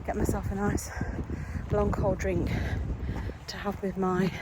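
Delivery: breathless from the walk in the heat; out of breath. Real, not acted. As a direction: speak between short panting breaths. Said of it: "I'm out of breath".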